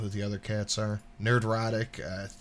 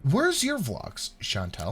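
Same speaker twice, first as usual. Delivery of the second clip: mocking; 3 semitones higher, slower than usual. Mocking the streamer on screen.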